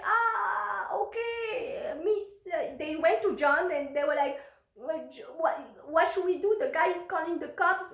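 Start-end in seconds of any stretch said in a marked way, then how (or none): 0.0-2.5 high, nervous, squeaky reply; mock-panicked mover; panicking movers. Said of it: "the movers were panicking". 4.7-7.9 panicking movers. Retold or imitated. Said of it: "the movers were panicking".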